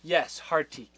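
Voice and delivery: ordinary delivery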